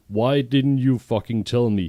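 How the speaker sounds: an outraged hammed-up yell; shouted. Draco yells at Ebony for hiding the threat, mock shout. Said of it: "he shouted".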